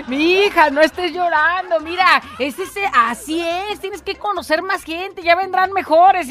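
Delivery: comforting mom. Retold or imitated. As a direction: soothe a crying daughter like mom. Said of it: "ahí va mi mamá".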